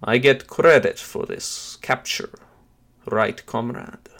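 put-on voice of a scheming janitor; janitor henchman. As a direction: play the henchman angling for credit, with pauses. Janitor Sergei voiced in the story.

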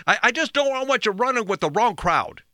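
high-pitched imitation of parental worry; concerned parent. Parent warning child about bad company, high mock-worried voice. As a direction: plead like a mock fretting parent. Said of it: "they would say things like".

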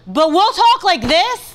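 loud, high demonstration of intense talk. Shown as a demonstration. Wife shows how the couple talks, intense. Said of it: "we're intense people".

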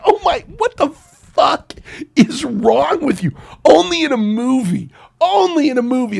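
high, laughing outrage; laughing disbelief. Real, not acted. Host laughing in outrage at the director, high laughing disbelief. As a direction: cackle through the disbelief, way up high. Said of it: "laughing disbelief".

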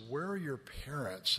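gentle question. Retold or imitated. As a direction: ask softly so the boys won't be frightened. Gently asking the frightened little boys.

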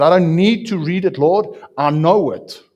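loud defiant retort to the Lord. Retold or imitated. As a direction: insist loudly you already know it. Retold defiant reply to God.

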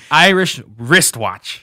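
"Irish wristwatch" slow and loud, words separated; deliberate tongue twister. Real, not acted. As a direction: force out "Irish wristwatch" carefully, every consonant. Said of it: "that's literally me trying".

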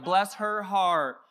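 a light Southern put-on, slow on "Bless her heart"; sugary Southern church auntie, lightly done; mock Southern sweetness. Pastor imitates a Southern auntie's sweet put-down, lightly. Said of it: "how the Southern Baptists do it".

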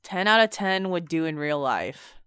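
deadpan fake endorsement; sarcastically sold praise; mock enthusiasm. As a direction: repeat the rave without conviction. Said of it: "I can hear it in your voice".

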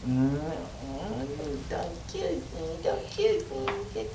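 high, nasal pleading goblin. Acted. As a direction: beg for your life like a squeaky goblin. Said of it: "Gotta get goblin voice".

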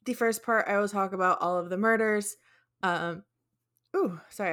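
talking through hiccups; hiccuping between words. Real, not acted. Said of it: "I have hiccups".

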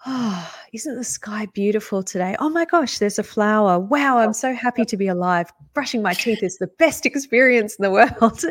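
lightly voiced, over-delighted meditation convert; blissed-out guy. The guy after meditation courses marvelling at the sky, mock bliss. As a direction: gush with mock wonder at everyday things. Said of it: "you become the guy that goes".

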